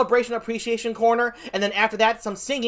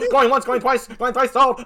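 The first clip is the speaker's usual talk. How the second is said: mock auctioneer. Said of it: "Are you an auctioneer?".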